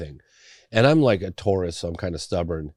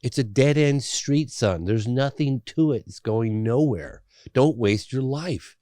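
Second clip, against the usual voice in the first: stern father; 5 semitones higher, 3 dB louder, slower than usual. Retold or imitated. Father voiced warning son.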